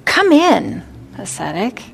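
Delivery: the ogre toying with the Buddha, calling loudly; ogre's summons. Acted. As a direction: order him back in, bossy.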